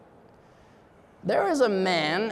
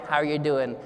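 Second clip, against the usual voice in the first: flat, lower, mechanical How are you doing; robotic greeting; 4 semitones lower than usual. Shown as a demonstration. Speaker mimics the routine robotic greeting. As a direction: toss it off like a reflex. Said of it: "the robotic".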